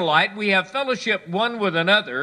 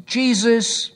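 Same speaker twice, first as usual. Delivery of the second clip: calling out; 4 dB louder than usual. Acted. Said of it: "he called out".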